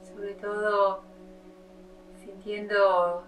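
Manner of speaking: unhurried yoga teacher opening a meditation; guided meditation. Acted. Eases into leading the meditation.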